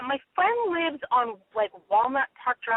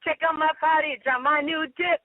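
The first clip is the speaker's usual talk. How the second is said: slightly lifted ad-line delivery; reenacted commercial; 4 semitones higher than usual. Actress describing repeated takes of her ad, commercial voice. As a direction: replay the commercial line once more. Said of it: "And I was like".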